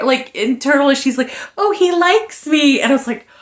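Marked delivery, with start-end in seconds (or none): 1.6-2.8 high, drawn-out gushing thought; slow, lovestruck squeal of realization; mock smitten delight. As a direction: imitate her secretly thrilled to be liked. Voicing her secretly delighted inner thought.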